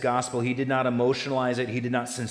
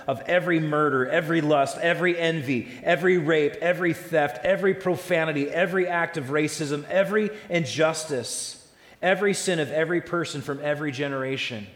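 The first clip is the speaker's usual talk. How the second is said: building preaching fervor; 5 semitones higher, 5 dB louder than usual. Acted. Escalating list of sins.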